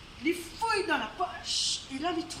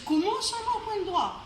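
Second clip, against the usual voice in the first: outraged, questioning the landlord; indignant surprise; 3 semitones higher than usual. Acted. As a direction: Chang protesting he has the right to rest. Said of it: "il a dit".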